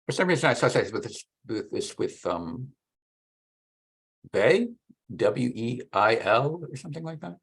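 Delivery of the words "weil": "Weil" said as "vay"; "Weil" with a V sound and no L; French-style pronunciation. Real, not acted. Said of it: "I hear some people pronounce his name".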